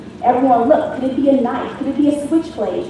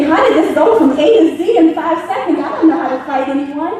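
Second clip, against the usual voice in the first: panicked laughing thought; 3 semitones higher than usual. Retold or imitated. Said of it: "And I'm just thinking".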